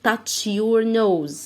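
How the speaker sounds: touch your nose, very slow, your stressed; slow command. Shown as a demonstration. Busy Bee ordering Dina, very slow game command. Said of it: "بتقول لدينا يلا touch".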